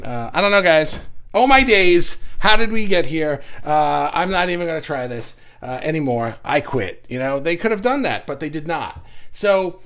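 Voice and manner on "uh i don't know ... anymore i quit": a loud, hammed-up English accent, giving up; mock English accent. Beatle quitting, loud hammed-up English accent. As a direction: ham up an English accent, then quit. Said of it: "just imagine an English accent".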